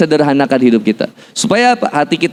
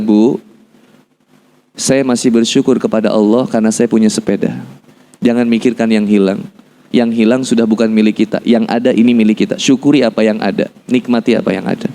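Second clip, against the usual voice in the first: lower, measured reassurance; calm consoling; 5 semitones lower than usual. Retold or imitated. Son consoles his mother over the loss, calm. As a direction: console gently in a low, steady voice.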